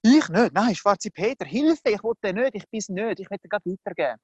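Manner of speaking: mock-panicked refusal; acted flustered protest, quickening at the end; frantic denial. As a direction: push the blame away in a hurry. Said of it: "die typische Reaktion von Adam und Eva".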